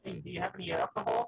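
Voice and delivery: robotic filtered voice. Real, not acted. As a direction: sound like a robot. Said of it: "you sound like a robot".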